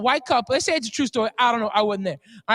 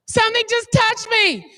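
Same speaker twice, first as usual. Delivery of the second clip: mock frightened; 8 semitones higher, 4 dB louder than usual. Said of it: "you hear the white girl say".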